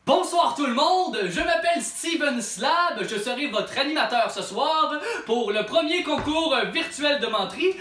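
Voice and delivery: bright host welcome; announcer voice. Acted. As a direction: present the show like an emcee. Host introduction.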